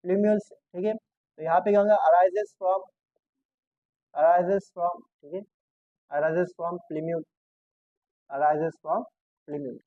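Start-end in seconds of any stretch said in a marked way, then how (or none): 2.1-9.8 slow dictation. Shown as a demonstration. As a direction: read it out slowly for students to copy. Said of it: "teacher dictates definition slowly".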